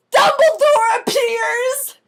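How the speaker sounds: slow, high, loud proclamation; dramatic announcement. A narrator's reading. Narrator heralding Dumbledore's arrival, slow and loud. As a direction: announce it like a big reveal.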